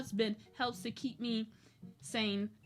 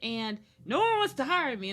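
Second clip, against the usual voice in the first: exasperated retort; 3 semitones higher, 3 dB louder than usual. Retold or imitated. Retold exasperated reply to caseworker.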